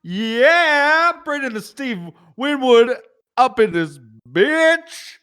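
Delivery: high, loud put-on English accent; over-the-top Brit voice, way up high; mock British accent. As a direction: ham up a cheeky British bloke. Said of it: "giving me shit about my accent".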